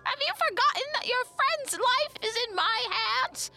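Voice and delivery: high, loud threatening hag; retaliating hag. A narrator's reading. Old woman holding the patient's life, retaliating angrily. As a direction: lash back in a high, loud voice. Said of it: "the second voice retaliated".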